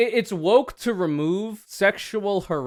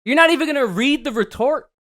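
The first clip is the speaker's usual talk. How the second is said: incredulous mock; 10 semitones higher, 7 dB louder, faster than usual. Mocking the source's reply.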